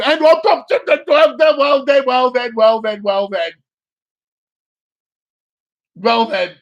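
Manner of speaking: drawn-out well then. Real, not acted. Surprise card reveal.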